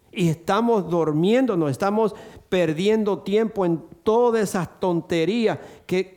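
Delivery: impassioned pulpit exhortation; fervent preaching. Acted. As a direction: rouse the church against distractions. Preaching at full force.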